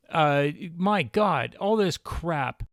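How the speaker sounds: slow, exasperated complaint; fed up, drawn-out frustration; frustrated. Real, not acted. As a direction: let mild disgust drag the words out. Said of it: "You hear frustration in my voice".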